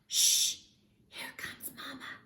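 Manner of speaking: urgent unvoiced hiss; hissed whisper. Pip warns the others that Mama comes, hissed whisper. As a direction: hush them before Mama arrives. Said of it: "hissed Pip".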